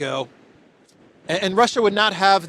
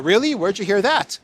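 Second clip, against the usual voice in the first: mock surprise; 4 semitones higher than usual. Trump answering a reporter, mock surprised. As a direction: play Trump caught off guard. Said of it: "and Trump said".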